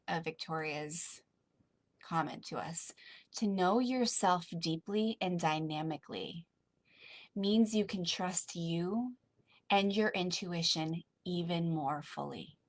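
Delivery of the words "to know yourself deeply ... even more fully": slow, gentle meditative reading of the quote; slow calm reread. Shown as a demonstration. Coach rereading Victoria's comment to the group, slow and gentle. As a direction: let each phrase land softly. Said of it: "I'm gonna repeat that last line".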